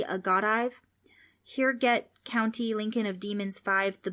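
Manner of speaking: put-on a kid tripping over his words; lightly voiced flustered boy; nervous little boy. Frank babbles backwards.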